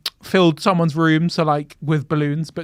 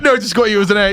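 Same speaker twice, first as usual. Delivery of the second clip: mock teacher; 5 semitones higher, 7 dB louder than usual. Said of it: "And he was like".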